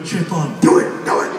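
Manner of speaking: lightly voiced low devil; a hint of a tempter egging on; devil's voice. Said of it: "angel voice in your head like".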